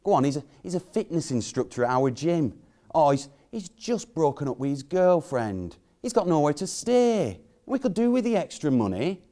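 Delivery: lightly voiced wife, lifting in pitch towards the end; mildly mimicked wheedling wife; wife coaxing. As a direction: imitate a wife talking her husband round. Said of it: "she says".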